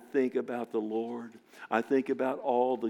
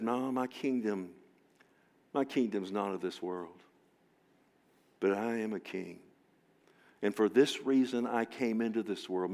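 hushed Jesus; 2 semitones lower, 4 dB quieter than usual. Acted. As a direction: answer Pilate gently, almost privately. Jesus answers Pilate.

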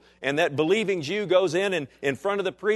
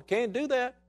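voice of God; 7 semitones higher than usual. Acted. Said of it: "God's going".

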